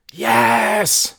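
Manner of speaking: high, loud roar of assent; scream. Acted. Crowd answering Mary as one, high scream. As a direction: yell it as a whole crowd.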